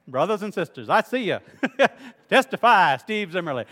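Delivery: lightly voiced hellfire preacher egging the crowd on; mock revival preacher. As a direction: playfully call out like a revival preacher. Mock Southern Baptist preacher call.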